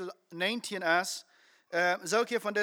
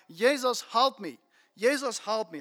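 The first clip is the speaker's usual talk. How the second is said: raised-pitch mock plea for help; imitated crying out; 2 semitones higher, 4 dB louder than usual. Blind man calling to Jesus for help, imitated cry. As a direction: call out for help, moderately raised voice. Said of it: "nog veel luider als hij geworden".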